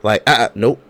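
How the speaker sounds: high, loud squealed "Er"; mock the sitcom refusal with a yelp; Jamie Foxx show brush-off.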